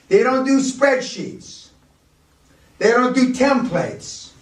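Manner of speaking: high, slow and insistent, with "do" punched; "They don't do" rising high, with "do" hit hard; stress on DO. Real, not acted. Hammering the point home.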